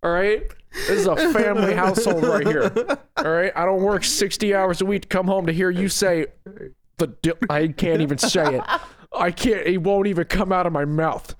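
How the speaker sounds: put-on Southern dad, growing accent. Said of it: "your accent got, like, progressively more southern".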